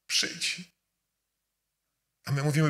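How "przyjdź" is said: an unvoiced whisper of przyjdź, urging; whispered plea. Preacher voicing God's inner call, whispered invitation.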